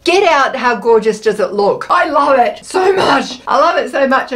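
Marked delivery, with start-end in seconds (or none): 1.9-3.4 slow, growly mock monster voice; a playful monster gushing over the cupcake. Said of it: "I'm using my monster voice".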